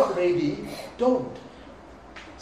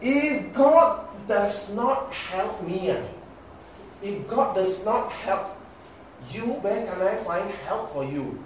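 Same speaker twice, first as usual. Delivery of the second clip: slow, drawn-out pious king; lightly voiced king sounding spiritual; a hint of a king stalling with piety; king's reply; 4 semitones higher, slower than usual. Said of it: "What did the king say?".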